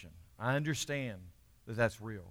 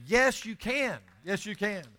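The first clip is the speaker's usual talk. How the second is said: fervent affirmation; 8 semitones higher, 6 dB louder, slower than usual. Real, not acted. Affirming congregation loudly.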